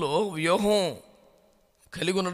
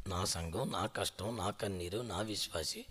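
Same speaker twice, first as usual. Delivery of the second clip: lower, much softer mocking of "నా" each time; mocking echo; 10 semitones lower, 11 dB quieter than usual. Preacher mocking a proud pastor's complaint, low and soft. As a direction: sneer the man's complaint back quietly. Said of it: "ఎటకారంగా మాట్లాడుతున్నావు".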